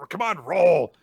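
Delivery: high, loud yell at stubborn dice; imitating a gambler's urgent yell; acted shout. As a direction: shout it as a frustrated command. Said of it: "Akane shouts at it".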